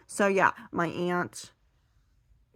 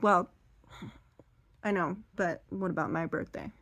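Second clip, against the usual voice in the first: softer, mildly wheedling mother; quietly angle for a present; imitated mom; 5 dB quieter than usual. Grandmother pressing her daughter for a gift, quietly put out. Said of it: "And her mom's like".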